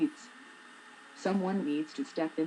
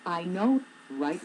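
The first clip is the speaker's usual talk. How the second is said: imitating coworker; slower than usual. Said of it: "and say".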